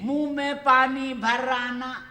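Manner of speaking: slow, as if mouth full of water; water held in mouth. Shown as a demonstration. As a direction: speak through a mouthful of water. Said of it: "देखो, मैं इस्तेमाल करता हूँ".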